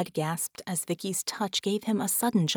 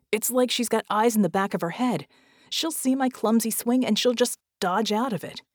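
higher, agitated protest; Red, agitated; 3 semitones higher, 4 dB louder than usual. Acted. Red argues the plan cannot work, agitated. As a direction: argue back urgently, voice raised in pitch.

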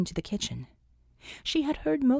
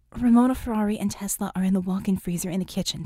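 rapid report; 3 dB louder, faster than usual. Acted. Vicky rapid status report.

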